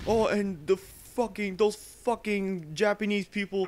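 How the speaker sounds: high, slow tearful rant; mock crying. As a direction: imitate a veteran breaking into tears, dragging the words. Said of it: "and he started crying".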